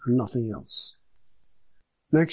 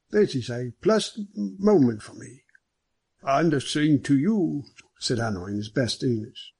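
genial superintendent. Acted. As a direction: welcome an honoured guest heartily. Superintendent greets the visitors.

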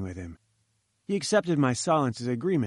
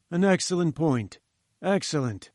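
patronising praise; 3 semitones higher than usual. Acted. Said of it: "with a huge air of patronage".

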